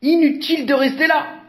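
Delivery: high, fast dismissive voice; quick dismissive bystander; onlooker giving up. A narrator's reading. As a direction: shrug it off and leave. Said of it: "un badaud".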